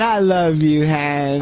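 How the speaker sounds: mock drunken affection, drawn out; lovey-dovey drunk. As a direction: imitate a sappy, affectionate drunk. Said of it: "he always gets all lovey-dovey".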